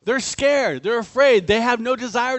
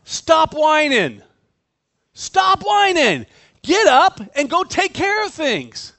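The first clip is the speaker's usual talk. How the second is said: God's stern rebuke; 5 semitones higher, 5 dB louder than usual. Acted. God rebuking Joshua for lying on the ground, loud stern command. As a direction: bark it out like an impatient coach. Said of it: "the modern day version of that".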